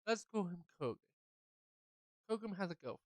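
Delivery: one simple fact at a time. Acted. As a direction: lay it out step by step with pauses. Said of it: "I'll say it slower".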